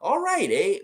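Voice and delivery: put-on high, slow, drawn-out Canadian accent with a rising eh. Visiting cousins in Winnipeg, slipping into a slow Canadian accent. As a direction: ham up a Manitoba Canadian accent, stretching each eh. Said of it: "Way more Canadian sounding".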